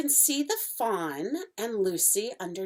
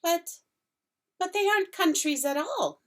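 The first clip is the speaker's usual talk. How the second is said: almost laughing; 11 semitones higher, 5 dB louder than usual. Acted. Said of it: "almost laughing".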